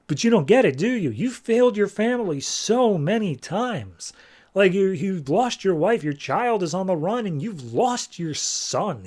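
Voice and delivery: twist the knife about his dead son; cruel taunting. Retold or imitated. Totem taunts Buddy about his family.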